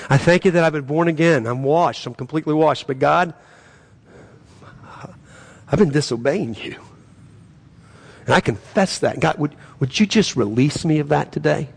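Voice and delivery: earnest spoken prayer to God. Shown as a demonstration. Pastor modelling a confession prayer, earnest prayer. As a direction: pray it aloud as a model for the congregation.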